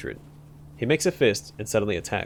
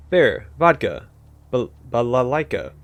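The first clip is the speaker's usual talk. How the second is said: sudden loud tic of words, stumbling at the end; involuntary shouted outburst; 4 dB louder, slower than usual. Acted. Clerk blurts words mid-conversation, loud involuntary outburst. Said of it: "I didn't want to say that".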